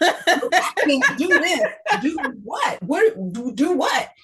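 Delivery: high, slow, tearful cry of disbelief; pleading with God through tears, voice breaking; retold sobbing plea. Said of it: "just bawling".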